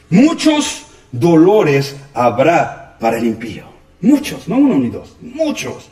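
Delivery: recalca MUCHOS, separado y alargado; lento, cada palabra con peso, MUCHOS destacado; énfasis en MUCHOS. Acted. Recita el versículo, lo recalca. (MUCHOS recalcado y pausado)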